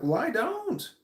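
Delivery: high, clipped "well, I don't"; curt refusal. Retold or imitated. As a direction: shut him down dryly.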